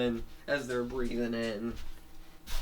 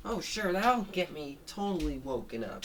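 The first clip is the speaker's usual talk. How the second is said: cartoon pig voice; 5 semitones higher than usual. Pig answers invitation to the mall.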